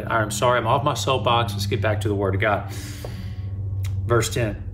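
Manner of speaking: ordinary talk, nothing marked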